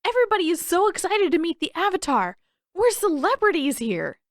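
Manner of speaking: high, fast and eager; exuberant boasting. Acted. Boy boasting to his friend, exuberant. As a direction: brag with glee. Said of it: "speaking louder than he needed to in his exuberance".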